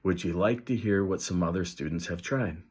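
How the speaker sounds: calm wise offer. Shown as a demonstration. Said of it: "wise adults say something like".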